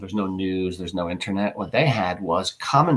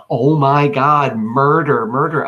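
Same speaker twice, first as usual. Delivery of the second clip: slow, louder cries of terror; hammed-up crowd panic; mock panicked scream; 3 semitones higher, 5 dB louder, slower than usual. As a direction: cry murder as a fleeing citizen. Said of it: "screaming and yelling".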